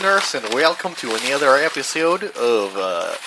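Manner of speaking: put-on muddled Russian accent, taken for country; attempted Russian accent. Host greeting listeners to open the show, attempted Russian accent. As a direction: have a loose go at a Russian accent. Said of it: "trying to do a Russian accent".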